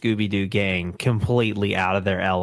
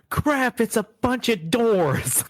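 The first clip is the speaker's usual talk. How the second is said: high, whiny mock dismay; Shaggy-style panic; 11 semitones higher, slower than usual. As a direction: squeak it out like a scared cartoon kid. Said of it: "and like".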